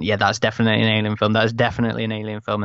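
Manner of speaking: rattled off quickly, imitating eager fans; fast, repeated quoted assurance; quick retold conviction. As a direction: run it together as a quick quoted reaction. Acting out fans before the trailer.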